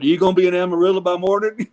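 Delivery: quick, giggly fanboy blurt; laughing blurt. Retold or imitated. Host retelling his fanboy line to a famous country singer, laughing fast. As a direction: rush it out, already laughing at yourself.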